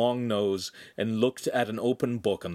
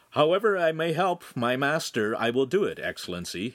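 higher, out-loud recital; parroting; 6 semitones higher, 3 dB louder than usual. A narrator's reading. Handsome parrots the prompt to the Podesta, out loud. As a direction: dutifully repeat a fed line aloud. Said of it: "Handsome parroted".

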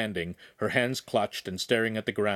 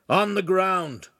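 slow, raised-pitch order; firm command; 8 semitones higher, 4 dB louder, slower than usual. A narrator's reading. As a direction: insist on being obeyed, each word drawn out. Officer orders nobleman to disarm.

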